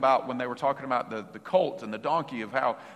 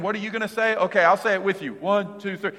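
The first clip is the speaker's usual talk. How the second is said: mock rehearsed cheer; 5 semitones higher, faster than usual. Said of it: "they weren't saying".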